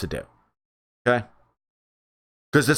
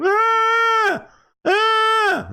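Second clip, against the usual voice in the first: goat impression. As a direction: bleat like a milking goat. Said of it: "goat impression".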